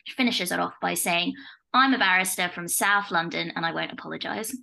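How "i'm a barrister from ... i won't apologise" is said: lightly put-on South London accent. Co-host reads out a barrister's tweet, light South London accent. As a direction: quote it with a touch of South London. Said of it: "Was that your South London accent".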